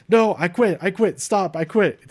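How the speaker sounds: high, urgent retold pleading; lightly acted frantic cries of quitting; frantic surrender. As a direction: imitate giving up in desperation. Retells wrestler surrendering to save brother.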